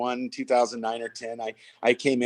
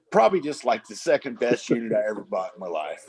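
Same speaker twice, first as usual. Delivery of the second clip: mock-modest buyer. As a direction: play it down like a lucky buyer hiding his luck. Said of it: "this is what the guy said".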